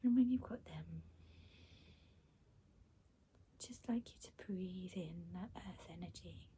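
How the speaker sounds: soothing meditation guide with long pauses; guided meditation. Acted. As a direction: guide their breathing, unhurried and calming. Leads breathing and release.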